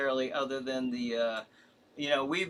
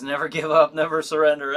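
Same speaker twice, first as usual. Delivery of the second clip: lightly voiced heroic rallying cry, louder; Buzz Lightyear; 8 dB louder than usual. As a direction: declaim it like a hint of a space hero. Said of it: "I'm thinking it in that voice".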